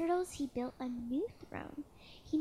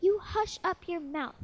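loud, higher angry snap; furious howl; 4 semitones higher, 7 dB louder than usual. Acted. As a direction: roar down at the little turtle. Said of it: "howled the mighty King Yertle".

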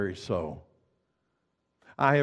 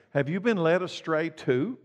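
mildly mocking question, pitched higher; 4 semitones higher than usual. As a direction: lift the pitch in mock disbelief. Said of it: "the Pharisees mocked".

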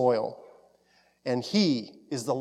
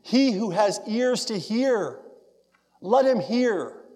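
high, slow fervent cry; preacher's impassioned calling out; raised voice, passionate; 6 semitones higher, slower than usual. Acted. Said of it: "He raised his voice in passion".

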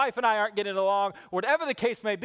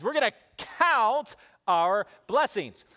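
louder and slow, a rallying call; leading the church; 4 semitones higher, 5 dB louder, slower than usual. Shown as a demonstration. Preacher leads the church in saying it, louder and slow. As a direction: call it out for all to repeat. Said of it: "Everybody say that with me".

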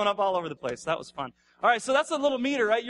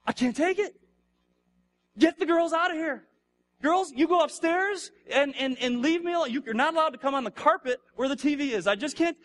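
put-on higher, louder exasperated outburst at the kids; fed-up dad; 6 semitones higher, 3 dB louder than usual. Father with no reserves yells at his young daughters, mock exasperated. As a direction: snap like a worn-out father at his noisy girls. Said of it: "they just put me on edge".

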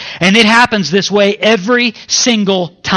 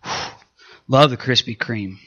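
swooning craving; 6 semitones lower, 9 dB quieter than usual. Retold or imitated. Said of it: "you're like".

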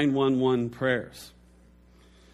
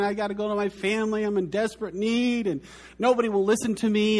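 retold crying plea; 5 semitones higher, faster than usual. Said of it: "So he's crying".

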